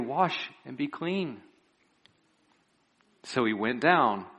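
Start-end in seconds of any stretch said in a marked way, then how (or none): 0.0-1.4 gently. Retold or imitated. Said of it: "I think they said this very gently".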